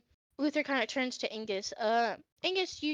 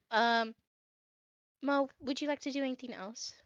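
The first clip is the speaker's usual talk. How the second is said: normal talking voice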